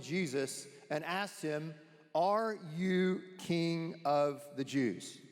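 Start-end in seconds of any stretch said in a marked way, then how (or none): 2.2-5.2 lightly acted governor, slow and deliberate; Pilate. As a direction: question the prisoner slowly, word by word. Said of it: "I'm gonna be Pilate. I'm the politician".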